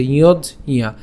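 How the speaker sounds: "ইয়জ ইয়া" in two parts, iyoj then iya; syllable-split pronunciation. Shown as a demonstration. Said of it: "কীভাবে উচ্চারণ করছি".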